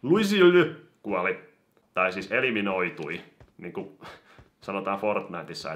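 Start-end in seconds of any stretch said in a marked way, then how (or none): 0.0-1.4 much higher, louder, slow proclaim; excited announcement. Real, not acted. Reporting an eliminated player, excited announcement. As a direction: announce the kill proudly.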